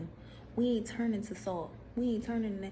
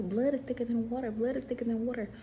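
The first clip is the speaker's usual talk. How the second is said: mock sing-song quote; 3 semitones higher than usual. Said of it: "They say".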